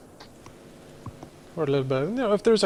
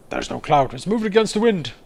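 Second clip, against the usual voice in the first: alarmed onlooker; 3 semitones higher, 6 dB louder than usual. Pretend. Onlooker voiced noticing odd cloud.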